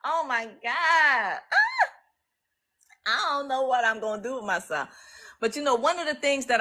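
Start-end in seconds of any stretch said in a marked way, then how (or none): 0.0-1.4 slow, tearful oh my God; choked up. Real, not acted. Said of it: "I'm getting a little misty-eyed". 1.5-1.9 sudden high emotional shriek; overwhelmed cry. Real, not acted.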